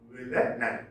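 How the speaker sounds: Villanelle broken up to show the second syllable; stress on second syllable. Shown as a demonstration. Teacher repeating the correct word for students, Villanelle stressed on second syllable. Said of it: "Stress is on the second syllable".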